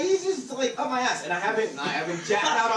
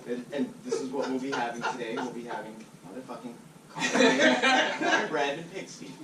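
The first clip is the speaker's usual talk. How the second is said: customer service voice; 6 semitones lower than usual. Pretend. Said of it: "Your customer service voice".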